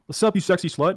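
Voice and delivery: hammed-up friend answering the phone with a laugh; imitating a flirty greeting. Friend answers the phone with a cheeky greeting, laughing mock voice. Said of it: "he answered the phone".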